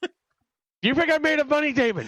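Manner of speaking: high, hammed-up stingy dad voice; mock fussy dad. Friend repeating the line as a shrill cheapskate dad. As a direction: squeak it like a penny-pinching father.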